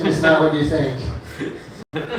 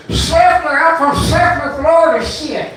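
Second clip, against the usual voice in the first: high, twangy Florida redneck voice; redneck accent; 9 semitones higher than usual. Retold or imitated. Local bragging about his hometown, redneck accent. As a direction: spit it out like a proud Seffner redneck. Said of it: "they have an accent".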